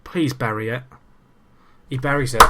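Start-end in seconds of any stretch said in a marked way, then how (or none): 1.9-2.4 relieved excited. Real, not acted. Penalty goes in.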